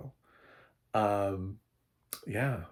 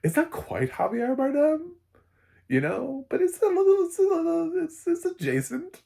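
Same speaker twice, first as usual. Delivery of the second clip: excited ooh; 7 dB louder than usual. Retold or imitated. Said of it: "I was like".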